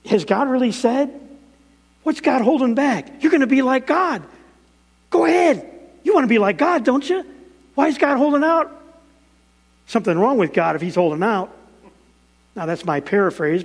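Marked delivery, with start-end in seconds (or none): 0.1-8.7 high, sly tempter voice; tempting Satan voice. Retold or imitated. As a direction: coax like a serpent. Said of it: "Satan tempted Eve by saying".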